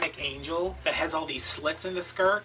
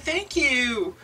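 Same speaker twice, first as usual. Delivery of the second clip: put-on high-pitched Asian-accented thanks; imitated Asian accent; 7 semitones higher, 3 dB louder than usual. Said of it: "offensive Asian accent".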